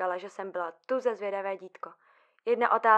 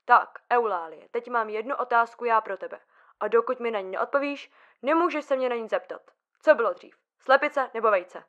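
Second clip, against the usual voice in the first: sharp, louder scolding; snapped at her; 5 dB louder than usual. Retold or imitated. Mother turns on her nagging daughter with a louder snap. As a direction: bark it out like an irritated mother. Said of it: "A tak se na mě otočila a vyštěkla".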